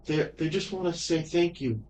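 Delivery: put-on a shy child thanking someone; little girl voice.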